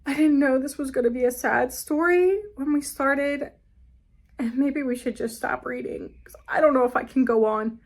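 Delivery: fast, hammed-up fretting; mock distress. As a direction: pretend to be too upset to read. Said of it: "Dry my eyes".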